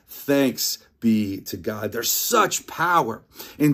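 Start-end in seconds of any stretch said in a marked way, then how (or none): 0.1-1.9 slow, solemn congregational response; liturgical response. Shown as a demonstration. Pastor leads the congregation's response, slow and solemn. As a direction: say it as the church answers. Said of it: "to which we say".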